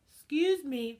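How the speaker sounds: loud but polite. Retold or imitated. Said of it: "as loud as I can to not sound rude".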